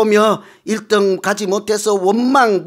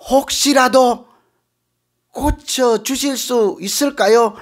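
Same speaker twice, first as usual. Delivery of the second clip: pleading sick man; 5 semitones higher than usual. Acted. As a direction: beg timidly for help. (높고 느린 애원하는 병자 목소리)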